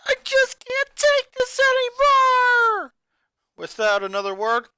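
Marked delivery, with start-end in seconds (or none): 0.1-2.9 slow, high, loud anguished cry; voice breaking. Acted. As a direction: crack under the strain as you cry it out. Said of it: "it was starting to break".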